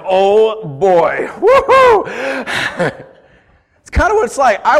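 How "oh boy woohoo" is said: a high, loud hammed-up cheer; mock whoop. Preacher acts the baffled onlooker, hammed-up high whoop. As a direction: throw your voice up into a goofy whoop. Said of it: "And you're like".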